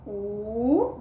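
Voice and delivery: U held alone as one long sound; sounded-out vowel. Shown as a demonstration. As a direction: isolate the vowel U for learners. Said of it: "E você lê ela sozinha".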